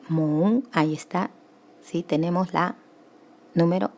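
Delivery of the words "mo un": "mo un" run together as one syllable; sinalefa. Shown as a demonstration. Teacher showing a sinalefa, "mo un" joined in one syllable. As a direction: glide "mo" straight into "un". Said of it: "ahí tengo otra sinalefa".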